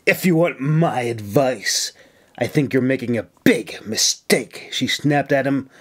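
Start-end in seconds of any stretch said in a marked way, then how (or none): 0.1-4.7 hardened, cold advice with an edge; hard tone. Acted. Officer coldly warning a friend he is making a mistake. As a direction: let the softness go hard. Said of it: "her soft tone turned hard".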